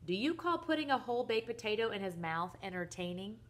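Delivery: indignant list of grievances, hitting key words; worked-up, incredulous questioning; exasperated rant. Acted. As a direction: rant like a fed-up father. Father rants about son's antics.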